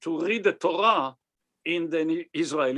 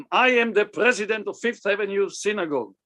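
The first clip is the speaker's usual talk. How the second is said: lightly imitating an authoritative synagogue president; Herman Merkin; 3 semitones higher, faster than usual. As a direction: announce your title with mock importance. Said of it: "I remember the way he was talking, the takif".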